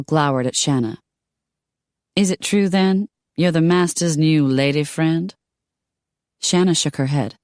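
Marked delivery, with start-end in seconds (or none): 2.1-5.3 put-on a higher, light Southern belle accent; lightly drawled Southern belle challenge. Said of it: "southern belle".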